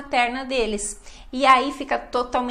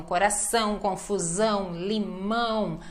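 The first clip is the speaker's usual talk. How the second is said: "coração", "confusão", "limão" with long nasal endings; emphasis on ÃO; 2 semitones lower, 3 dB quieter than usual. Shown as a demonstration. Teacher listing nasal examples, lengthened endings like "limão". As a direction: stretch each final ÃO in "limão". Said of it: "pode dar ênfase".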